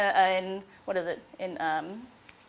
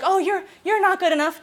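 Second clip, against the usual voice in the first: a higher, cutting put-down; inner critic; 6 semitones higher than usual. Shown as a demonstration. Therapist playing a client's inner critic, cutting put-down. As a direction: needle them like the voice of self-doubt. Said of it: "I'll be your inner critic".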